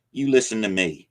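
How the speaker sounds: put-on old man stressing his warning; emphatic. A narrator's reading. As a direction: press every word. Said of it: "he said emphatically".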